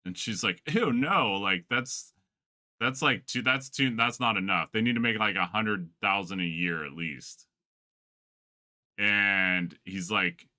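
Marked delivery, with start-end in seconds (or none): 0.7-7.5 mock valley girl. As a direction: imitate a disgusted young girl turning the guy down. Retold girl rejecting low salary.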